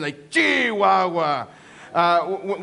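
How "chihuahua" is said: drawn-out exclamation of dismay; slow, feeling every syllable of Chihuahua; with emotion. Shown as a demonstration. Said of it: "you have to say it, like, with emotion".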